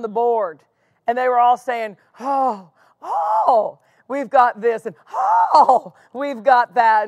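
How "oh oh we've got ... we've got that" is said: a hint of Jerry Clower, drawn-out oh; lightly voiced Southern storyteller complaining; Jerry Clower impression. Board members grumbling to Hagin, lightly voiced Jerry Clower. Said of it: "my best Jerry Clower impression".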